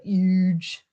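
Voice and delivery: a light hint of Trump saying huge; barely voiced Trump, stretching huge; Donald Trump. Streamer mimics how Trump says huge, lightly. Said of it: "Donald Trump would say it".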